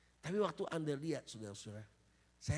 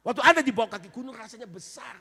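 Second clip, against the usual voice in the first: preaching shout; 10 semitones higher, 15 dB louder than usual. Acted. Preaching at full force.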